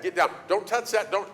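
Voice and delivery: hammed-up no-no to a climbing kid; mock yell. Speaker scolding child, retold.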